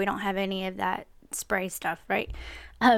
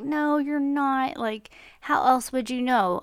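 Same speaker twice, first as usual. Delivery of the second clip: slow, higher-pitched retold reassurance; reassuring mother; 4 semitones higher, slower than usual. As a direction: gently contradict an upset child, drawn out. Mother reassures her crying daughter.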